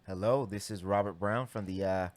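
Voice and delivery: polished customer service greeting; professional work voice. Acted. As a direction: answer like a call center agent. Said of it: "he went real professional work voice".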